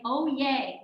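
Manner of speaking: acted cheerful little cheer; mock delight. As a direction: welcome it like good news. Acting out welcoming trouble gladly.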